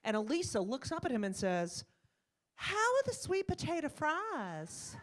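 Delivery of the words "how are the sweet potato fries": high, slow mock Southern drawl; put-on Carolina twang, stretched and high; imitated North Carolina accent. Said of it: "she starts talking like them".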